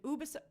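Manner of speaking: "Ubisoft" starting OO, as a question; alternative pronunciation. Shown as a demonstration. Host asks viewers how to pronounce it, "Ubisoft" starting OO. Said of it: "Or is it".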